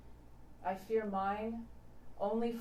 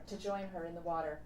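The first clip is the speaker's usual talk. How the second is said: quick echo; faster than usual. Shown as a demonstration. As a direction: toss the echo off quickly, like an afterthought. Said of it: "She pleads with him to join her in the water".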